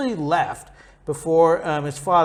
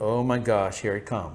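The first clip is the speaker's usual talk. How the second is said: mock dread; 7 semitones lower, 4 dB quieter than usual. Jacob waiting for Esau's scream, hammed-up quiet dread. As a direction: lower and softer, a muttered uh-oh. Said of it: "He's just sitting there going".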